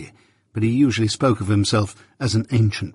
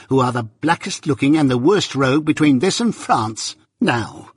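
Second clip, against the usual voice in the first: mounting rage; 4 semitones higher than usual. Acted. Sister railing at husband and journeyman, mounting rage. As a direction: rail at both men, starting high. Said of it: "beginning to work herself into a mighty rage".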